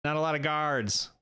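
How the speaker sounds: a hint of a scheming quest-giver; lightly voiced Rusty, businesslike. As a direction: lay out the job in character. Game master voices Rusty giving job.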